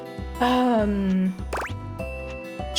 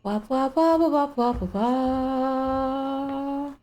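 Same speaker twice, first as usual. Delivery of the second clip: wah wah sounds; 4 semitones higher, much slower than usual. Shown as a demonstration. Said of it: "triggers the thing it's supposed to trigger".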